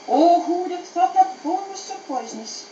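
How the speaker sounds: high-pitched, put-on wailing; pained lament. Little dog laments the poisoned bone, acted wailing.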